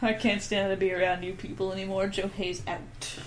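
lightly voiced folklorist signing off; Joe Hayes. Fake guest storyteller quitting the podcast, lightly put-on voice. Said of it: "me as apparently Obama, as Joe Hayes".

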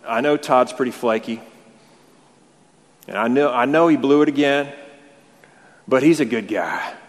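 mock advocate with a Southern twang; Southern accent. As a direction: plead for a friend in a Southern accent. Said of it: "I'm talking in a Southern accent".

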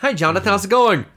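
mock teenage Frollo. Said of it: "he's just horny teenager".

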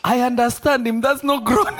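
high, breaking into laughter; laughing retold quote. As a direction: quote him while cracking up. Retells friend's remark while cracking up.

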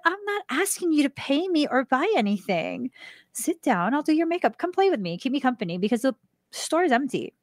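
insistent friendly invite; cheerful coaxing. Retold or imitated. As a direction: coax her gently into the chair, voice up high. Retelling her insisting invitation.

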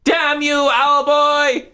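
very high, cursing squeal; squeaky angry monster. Acted. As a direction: spit curses like a tiny imp. Marty curses in squeaky voice.

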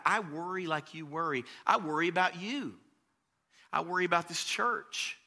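ordinary talk, nothing marked

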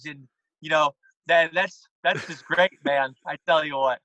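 light gushing Jon Gruden; Jon Gruden impression. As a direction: gush like a football commentator, lightly. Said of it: "Jon Gruden".

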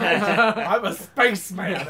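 slow, drawn-out spaceman announcement; spaceman character. Acted. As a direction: stretch it out as a goofy spaceman. Repeats the character line, hammed up.

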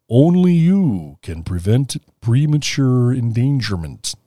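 slow, lightly voiced Smokey Bear; a hint of a kindly forest bear; gentle bear person. Shown as a demonstration. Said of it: "the bear voice for that one?".

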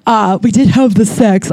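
self-consciously stilted confession; real awkwardness in a plain admission; awkward admission. Real, not acted. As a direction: own up to it awkwardly. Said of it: "saying it so awkwardly".

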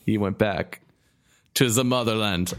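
a hint of a German accent; lightly voiced German accent, menacing. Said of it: "I did a Rush or a German accent there".

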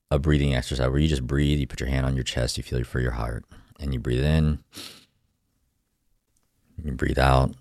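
calm guided meditation voice. Acted. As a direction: gently guide the breathing. Leads a breathing exercise.

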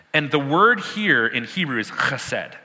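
"chesed" with a throaty ch; Hebrew pronunciation. Shown as a demonstration. Teacher showing the class the Hebrew word, throaty. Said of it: "You gotta get that phlegm in there".

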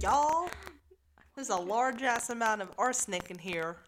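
loud, high-pitched mock announcement; mock chemist. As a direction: ham up the chemist's big news. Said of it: "He said".

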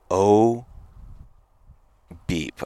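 saying beep for a swear word; self-censored exclamation; bleeped curse. Real, not acted. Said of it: "I don't know if I can say that".

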